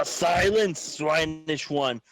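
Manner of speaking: slow, imperious; lightly voiced stern zealot; haughty command. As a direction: order silence with disdain. Character commanding.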